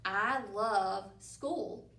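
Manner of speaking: very slow I love school, each word apart. Shown as a demonstration. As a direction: count each word slowly. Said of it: "the first sentence that I have is".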